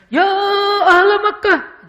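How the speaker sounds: high, loud, dramatic preacher's cry, slow; overdone pulpit yell; preacher's shout. Shown as a demonstration. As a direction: bellow it like a fiery khatib. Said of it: "hadis ini berubah nadanya".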